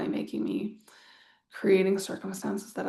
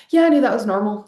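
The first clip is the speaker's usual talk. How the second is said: casual confidence; 11 dB louder, faster than usual. Pretend. Acted casual confident inner voice.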